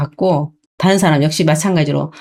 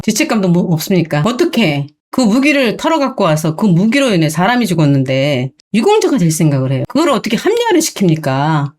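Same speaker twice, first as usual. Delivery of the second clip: usual speaking voice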